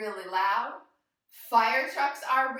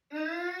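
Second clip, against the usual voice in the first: yummy mm hum; 4 semitones higher, 4 dB quieter than usual. Shown as a demonstration. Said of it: "And say".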